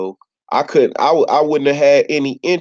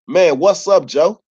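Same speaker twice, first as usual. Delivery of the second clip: aggressive greeting; 4 semitones higher than usual. Retold or imitated. Stranger sizing you up on the block, mock-aggressive. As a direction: imitate a street challenge, a touch gruff. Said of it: "it sound aggressive".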